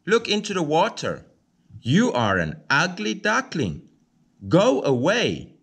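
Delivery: snooty bird telling a stranger to leave; big marsh duck. A narrator's reading. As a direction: shoo the duckling off like a haughty marsh duck. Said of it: "says the big marsh duck".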